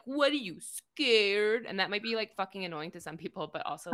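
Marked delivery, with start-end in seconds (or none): 0.0-1.7 slow, taunting dare; mock taunting. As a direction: drawl it out like teasing a scared kid. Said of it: "you're like".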